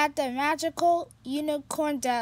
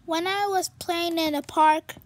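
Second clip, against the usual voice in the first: a touch higher, quick unicorn voice; lightly voiced sad unicorn; 4 semitones higher, 4 dB louder, faster than usual. Stevie telling Pete about the party, lightly worried.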